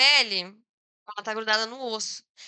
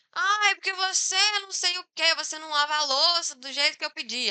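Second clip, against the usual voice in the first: higher-pitched nagging gripe; complaining parent; 4 semitones higher than usual. Acted. Parent nagging their child about dishes, complaining. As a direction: imitate a parent griping at a child. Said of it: "uma pessoa reclamar a mesma coisa".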